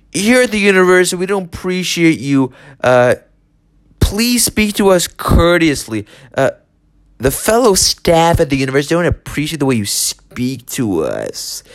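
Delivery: hammed-up prissy administrator; mock prim staff voice. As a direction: parody a stuffy university clerk scolding you. Mocking the offended university staff.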